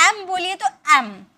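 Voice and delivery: "एम" opening on a clear eh vowel; vowel-initial letter name. Shown as a demonstration. Teacher asking students to hear MA's first sound, "एम" vowel-first. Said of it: "ए का sound आ रहा है".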